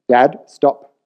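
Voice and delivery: sharp retold rebuke; retold firm warning. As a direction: replay cutting dad off. Retold warning to dad at party.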